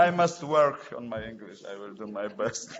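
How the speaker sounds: chuckling through the words at his own expense; laughing. Real, not acted. Judge joking about his poor English, laughing. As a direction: laugh it off while promising to improve.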